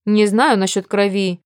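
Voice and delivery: ordinary delivery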